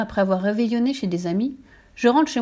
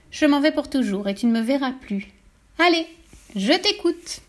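lightly voiced witch; 3 semitones higher than usual. Witch setting the teller a three-wish trial. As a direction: lay out the deal with relish.

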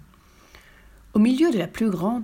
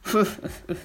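crocodile chuckle; 3 dB quieter than usual. A narrator's reading. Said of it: "s'exclama de nouveau".

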